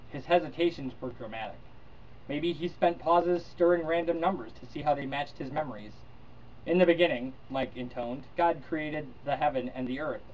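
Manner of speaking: measured read-aloud narration with lightly voiced characters; story reading. Vlogger reads Heinlein's novel to viewers, steady narration. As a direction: read the passage like an audiobook.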